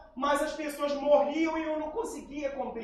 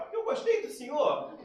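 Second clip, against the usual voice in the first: laughing quote; 4 semitones higher than usual. Retold or imitated. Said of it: "Ela falou".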